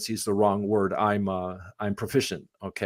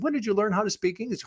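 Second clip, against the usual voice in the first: higher, quick mock question; retold retort; 10 semitones higher, faster than usual. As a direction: throw the question back, pitched up and quicker. Retold retort to taxi driver.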